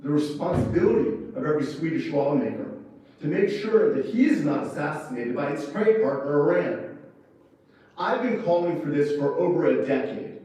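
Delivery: loud, impassioned appeal to Sweden; really fired up, pressing the point hard; worked up. Real, not acted. Ambassador urging Swedish lawmakers, loud and worked up. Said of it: "I get worked up".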